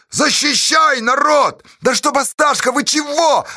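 very high, overexcited yell; spluttering cry. A narrator's reading. Nikeshka calling on the people, spluttering shout. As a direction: tumble the words out as a cry. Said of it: "захлёбываясь, закричал Никешка".

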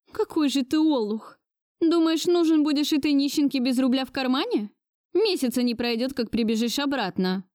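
put-on high, furious old lady's scolding; raging grandmother. A narrator's reading. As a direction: rage at him with scorn. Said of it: "ярилась она". (разъярённая бабушка)

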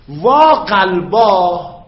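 «وا» خیلی کشیده و بلند، مثل ناله; قلبا را با آه بلند و آرام بکش; ندبه کشیده. Shown as a demonstration. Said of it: "این الف و ها علامت، ندبه است".

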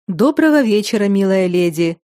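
usual speaking voice

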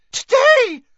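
high piercing shriek. Acted. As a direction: shriek it out in shock. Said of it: "shrieked Hermione".

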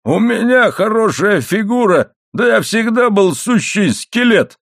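high-pitched, exclaimed protest; indignant protest. A narrator's reading. Husband denies compliment on his figure, indignantly exclaiming. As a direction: pitch it well up, as if affronted.

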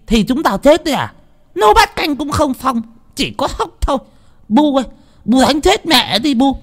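put-on spiteful girl. A narrator's reading. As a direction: egg her mother on, jeering. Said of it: "giảo cái mỏ". (con gái hỗn láo chế giễu, giọng rất cao và to)

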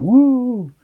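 high gleeful whoop on the drop; excited whoop. Retold or imitated. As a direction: let out a thrill-ride whoop. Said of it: "and you went".

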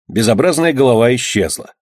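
plain reading voice

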